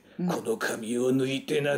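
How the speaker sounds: put-on creepy, frightening old woman voice. Performer showing how they voice the old woman role, scary old woman voice. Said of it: "こう怖い声で".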